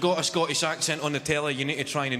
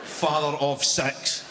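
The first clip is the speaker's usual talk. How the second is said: billboard caption; much slower than usual. Pretend. Mock billboard caption, slow.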